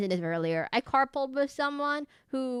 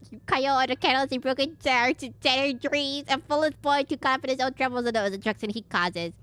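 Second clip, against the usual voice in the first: lightly goofy mocking villainess; a hint of a goofy villainess mocking Kyle; 4 semitones higher, 3 dB louder than usual. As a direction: tease the hero in a goofy put-on voice. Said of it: "I give her this goofy voice".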